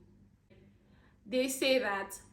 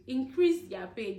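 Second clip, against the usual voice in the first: "Increase" stressed, each word slowed; slow repeat. Real, not acted. Vlogger repeating her demand for nurses' pay, slow and deliberate. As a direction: spell the plea out slowly.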